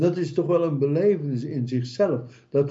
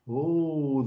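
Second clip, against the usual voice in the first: normal talking voice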